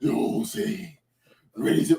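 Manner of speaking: lightly growled hero impression; a hint of throaty growl; put-on vigilante voice. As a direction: half-heartedly rasp it like a masked hero. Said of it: "Why are you talking like that?".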